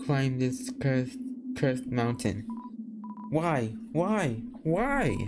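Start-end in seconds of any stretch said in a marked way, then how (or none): 3.3-5.2 rising anguish. Acted.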